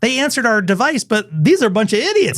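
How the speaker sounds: high, scornful alien voice. Pretend. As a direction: sneer like an unimpressed alien. Disappointed aliens give up on humans.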